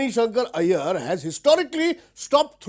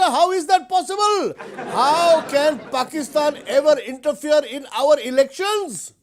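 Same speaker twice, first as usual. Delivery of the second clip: outraged; 4 semitones higher than usual. Acted. Outraged rhetorical question.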